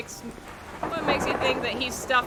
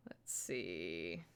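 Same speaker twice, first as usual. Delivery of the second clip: whispering; 18 dB quieter, much slower than usual. Real, not acted. Checking messages quietly.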